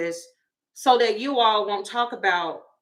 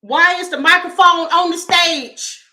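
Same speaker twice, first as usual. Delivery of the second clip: louder, higher yell at the stage; fan yelling; 7 semitones higher, 8 dB louder than usual. Retold or imitated. A fan at the back yelling at Justin, louder and higher. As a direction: holler it up from the back.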